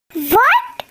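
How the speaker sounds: steeply rising shocked question; stunned disbelief. Acted. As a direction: react to devastating news in disbelief. Learns she cannot be a mother.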